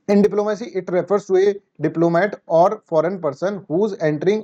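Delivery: very slow, deliberate reading of a definition; dictating a definition word by word; slow dictation read. Shown as a demonstration. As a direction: read it out slowly as if for notes. Reads definition slowly.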